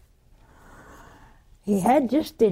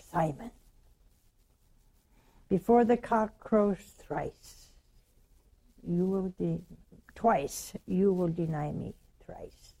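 Jesus quietly warning Peter; soft solemn warning; 4 semitones lower, 8 dB quieter than usual. Acted. Jesus tells Peter gently, hushed whisper.

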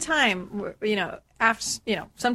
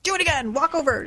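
higher mock drill sergeant order; 6 semitones higher than usual. Mentor ordering Trent to repeat, mock sergeant command. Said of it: "like drill sergeant".

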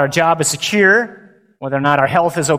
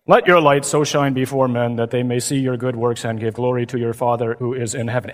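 flat, low, lifeless liturgical monotone; droning gospel reading; 4 semitones lower than usual. Retold or imitated. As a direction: read it like a bored priest at Mass. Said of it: "Ever heard it read like that?".

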